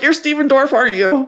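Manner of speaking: high, loud fangirl blurt, retold; over-eager squeaky gush, hammed up; uncool star-struck blurt. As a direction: accost a celebrity, failing to play it cool. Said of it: "I was super cool".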